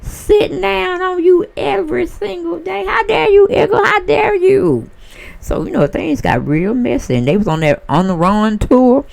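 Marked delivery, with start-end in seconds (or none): 0.0-4.9 imitating a singer. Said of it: "you like".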